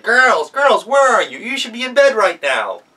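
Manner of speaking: high, loud calling into the dark; wolf searching outside, calling the girls. Acted. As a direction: shout for the missing girls.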